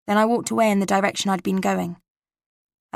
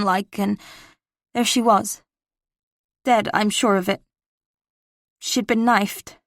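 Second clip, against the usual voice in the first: a hint of a Boston accent as a teenage boy; lightly voiced nervous Boston kid on the phone; faint Boston accent, teen caller. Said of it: "I kept the Boston accent but lowered my voice".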